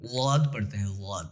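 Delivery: واد said as a plain thin "wad" with no heavy sound; wrong plain wad. Shown as a demonstration. Teacher mimicking a common wrong way of saying واد. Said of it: "واد پڑھنا درست نہیں ہے".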